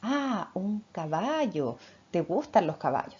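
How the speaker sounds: slow, gentle model word said clearly; correct modeling for a child. Shown as a demonstration. Mother repeats "caballo" correctly to her child, slow and clear. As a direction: stretch "caballo" slowly so the child hears it right. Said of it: "Y le digo".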